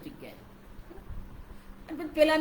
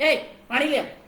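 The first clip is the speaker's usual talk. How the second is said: changed tone; 4 dB louder, slower than usual. Shown as a demonstration. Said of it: "તો તમારો tone બદલાયો".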